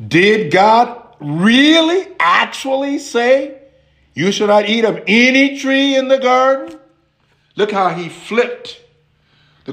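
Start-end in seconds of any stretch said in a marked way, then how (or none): 0.1-6.8 a hint of a sly tempter; mild serpent voice. Serpent questioning the woman, lightly sly. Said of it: "He said to the woman".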